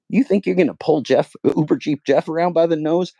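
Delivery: taunting. Real, not acted. Vlogger taunting corporate news over Jeff, high and loud.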